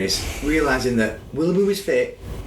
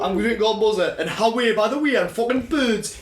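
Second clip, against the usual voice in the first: slightly raised, mocking Geordie accent; Anthony McPartlin; 4 semitones higher than usual. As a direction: put on a comic Geordie impression. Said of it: "When does Anthony McPartlin ever go".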